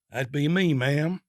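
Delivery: unhurried Alabama drawl; lazy Southern Alabama drawl, taking his time. Acted. Marine to the prostitute, easy Alabama drawl. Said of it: "in his unhurried Alabama drawl".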